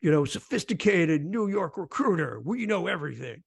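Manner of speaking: lightly voiced swaggering big-city recruiter, boasting; a hint of a tough-guy sales pitch, hammed up; mock cocky recruiter. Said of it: "putting on an act".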